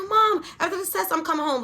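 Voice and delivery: imitating a thrilled girl, high-pitched; excited daughter. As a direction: blurt it out to mom with urgency. Retold excited daughter on phone.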